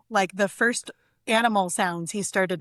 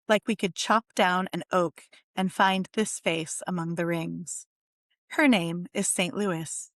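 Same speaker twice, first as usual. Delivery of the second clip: poem reading. Acted. Poet reads her bird poem to the podcast audience, measured and unhurried. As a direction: let each image land as you read the poem aloud.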